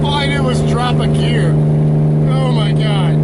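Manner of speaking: breathless giddy laughter; giddy after the pull; excited laughing. Real, not acted. Laughing after hard acceleration.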